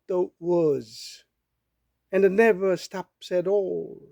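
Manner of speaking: very slow, measured English verse reading; poem recitation. Acted. Reading a Dickinson poem to listeners, slow recitation. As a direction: recite slowly, pausing between phrases.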